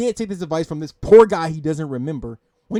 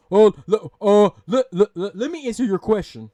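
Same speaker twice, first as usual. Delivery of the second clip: mock stammering; 6 dB louder than usual. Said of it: "Stop with this animated bullshit".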